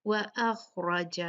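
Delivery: slow "व अख़रज" with thick kh and r; "व अख़रज" recited full-mouthed; heavy letters. Shown as a demonstration. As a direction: darken "ख़" and "र" in "व अख़रज". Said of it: "भारी पढ़े जाएंगे".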